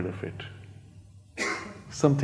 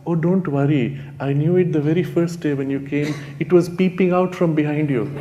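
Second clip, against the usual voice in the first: sweetly; 3 semitones higher than usual. Retold or imitated. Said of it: "very sweetly the mother said".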